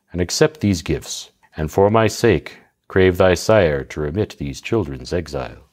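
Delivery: calm her down gently; soothing husband. Acted. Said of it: "tried to check his young bride's angry humour".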